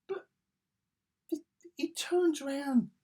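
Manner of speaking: hushed whisper setting up the punchline. Real, not acted. Reviewer whispers before quoting Fury. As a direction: lean in and whisper it. Conspiratorial retelling.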